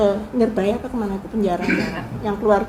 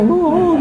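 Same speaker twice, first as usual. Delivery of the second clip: one retold sob, higher and louder; mock sob; 7 semitones higher, 5 dB louder than usual. Retelling Bung Karno weeping at the grave, mock sob. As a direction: voice the sob that could be heard. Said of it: "suaranya kedengeran".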